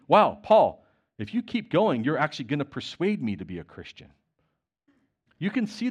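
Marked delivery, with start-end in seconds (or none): 0.1-4.1 sincere admission. Retold or imitated. Agrippa admitting to Paul he is nearly won over, amazed and earnest. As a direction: let it dawn on him, half persuaded. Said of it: "actually admitting".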